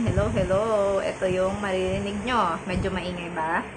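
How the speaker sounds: 1 phone mic test. Shown as a demonstration. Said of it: "naka-off na po yung microphone".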